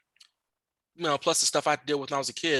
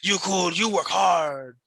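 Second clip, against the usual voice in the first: coworker's praise; much slower than usual. Retold or imitated.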